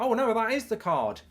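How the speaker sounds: lightly voiced muddled stranger; mock dithering man. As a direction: play the clueless man for laughs. Mimicking the man at ATM.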